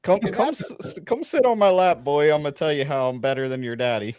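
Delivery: wheedling sleazy invitation, lightly mocking; leering old lecher. Mock creepy offer to boy.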